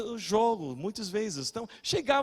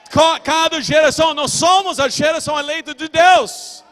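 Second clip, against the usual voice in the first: loud, raised-pitch preaching voice; forceful preaching; 6 semitones higher, 12 dB louder than usual. Real, not acted. Preacher correcting the church on who the generation is, forceful preaching. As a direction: push it up into a shouted climax.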